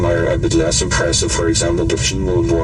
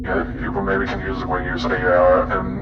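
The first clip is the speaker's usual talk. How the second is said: robotic AI voice; 4 dB quieter than usual. Shown as a demonstration. AI voice changer demo.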